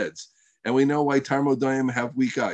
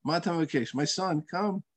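soft, patient fatherly invitation; calm, loving; 3 semitones higher, 5 dB quieter than usual. Retold or imitated. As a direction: gently coax him, unruffled. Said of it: "He'll the same thing".

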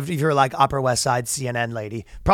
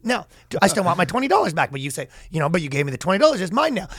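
Patrick McDavid impression; 2 semitones higher, faster than usual. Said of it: "My Patrick McDavid is".

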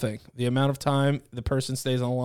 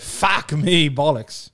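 mock British curse; much slower than usual. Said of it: "Speak with a British accent".

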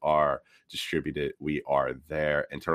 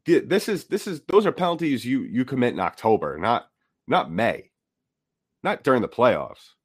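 high, incredulous half-laugh; exasperated disbelief at the penalties; 5 semitones higher, 3 dB louder than usual. Real, not acted. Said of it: "I am in complete disbelief".

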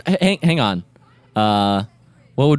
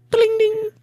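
very high ding ding; ding sound effect. Pretend. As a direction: chime like a bell. Imitating a sound.

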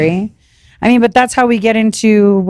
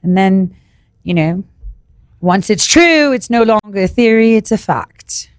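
put-on British accent; 2 semitones lower than usual. Co-host defining conspiracy theory, mock British accent. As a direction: explain it in a playful British accent. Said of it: "I'll do the British accent".

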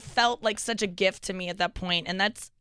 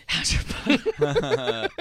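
mock munchkin line; 6 semitones higher, 3 dB louder, slower than usual. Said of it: "he said".

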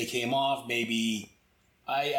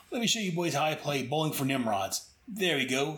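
gleeful hero quip. Retold or imitated. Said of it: "throws him to the other and says".

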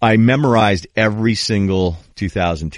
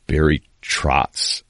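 dry, slow deadpan name drop; Kenny Mayne; much slower than usual. Retold or imitated. Host imitating a dry sportscaster naming coaches, deadpan. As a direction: deliver the name drily, drawn out. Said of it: "it's just this really dry".

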